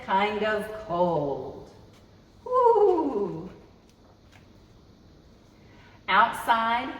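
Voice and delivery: expressive picture-book read-aloud; reading to children. Acted. Storytime host reading a winter book to kids, expressive. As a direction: savor each cold word for little listeners.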